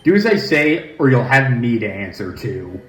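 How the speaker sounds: firm, commanding woman; stern woman voice. Acted. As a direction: give the order sternly. The stern character giving orders.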